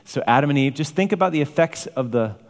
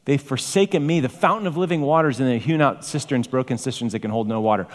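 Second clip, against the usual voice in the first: voicing God; 4 semitones higher than usual. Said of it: "So God talks like this".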